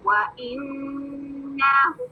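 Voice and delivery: व इन्नहु very slow, ghunna held two counts, हु stretched; slow tajweed recitation. Shown as a demonstration. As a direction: chant व इन्नहु with rounded व. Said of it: "नून मुशद्दद का गुन्ना टू counts".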